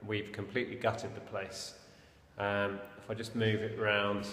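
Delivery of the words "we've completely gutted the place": echoing in an empty room; hallway echo. Real, not acted. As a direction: voice bouncing off bare walls. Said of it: "as you can hear by the echo".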